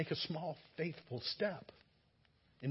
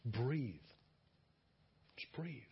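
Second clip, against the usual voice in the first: gentle breathe; 3 semitones lower, 5 dB quieter, slower than usual. Shown as a demonstration. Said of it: "demonstrating slowing down".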